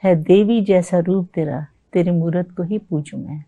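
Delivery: slow, measured poem recital; stately nazm recitation. Acted. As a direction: recite it like at a mushaira.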